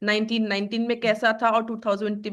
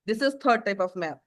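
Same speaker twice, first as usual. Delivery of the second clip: slow dictation; much slower than usual. Shown as a demonstration. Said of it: "teacher states the heading in English".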